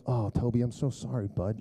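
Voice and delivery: softening, gentle apology; retold tender sympathy. Dad consoles son with cut foot, retold tender sympathy.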